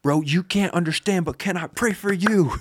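high-pitched, earnest imitated appeal; getting across. Friend offering prayer to man with no English, getting across. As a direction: pitch it up to reach someone who doesn't understand.

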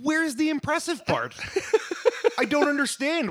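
laughing disbelief. Real, not acted. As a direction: laugh at how lame it is. Mocking the beer bit.

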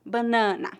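"Banana" with weight on the middle NA; stress on penultimate. Shown as a demonstration. Teacher repeating the tonic syllable rule, stress on penultimate. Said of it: "a sílaba tônica é a penúltima".

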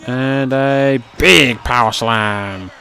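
slow, drawn-out shouted slam call; excited commentary. Acted. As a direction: call the big slam out loud.

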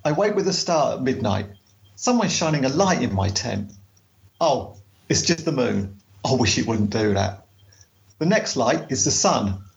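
audiobook reading. Shown as a demonstration. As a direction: read it like a travel audiobook, unhurried. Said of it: "read it like you would if you were recording it for the audiobook".

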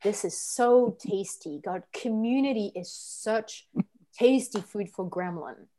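slow, hushed relish; savouring gremlin voice. Shown as a demonstration. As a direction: savour every word like a greedy gremlin. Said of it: "do it a little slower".

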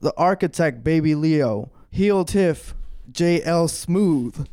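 booming circus announcer intro; ringmaster. Acted. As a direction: ringmaster hyping the crowd. Ringmaster intro over music.

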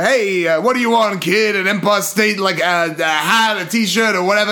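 a bit loud, hint of a New York street vendor; New York cabbie accent. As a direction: imitate a New York cabbie, voice slightly lifted.

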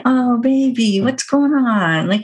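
put-on gentle and unhurried, comforting a small child; soothing, reassuring. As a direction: soothe her, slowing down on the comfort. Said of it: "in a soothing way and reassuring her".

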